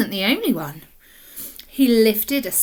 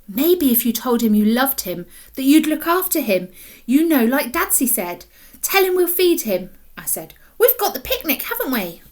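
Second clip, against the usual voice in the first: put-on louder, eager boy's idea; urgent suggestion; 3 semitones higher, 5 dB louder than usual. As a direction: rush out the idea, hopeful. Boy urgently suggests to sister.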